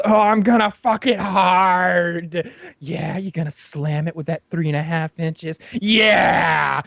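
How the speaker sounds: slow, earnest dopey replies; lightly voiced eager Bobo. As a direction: answer the caller earnestly. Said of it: "And he's".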